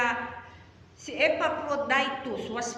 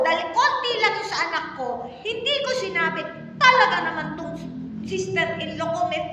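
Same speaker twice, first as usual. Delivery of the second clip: raised, driving sermon voice, higher and louder; preaching at full force; 7 semitones higher, 5 dB louder than usual. Acted. Pastor presses the congregation about anger, preaching at full force. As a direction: push each point hard to the congregation.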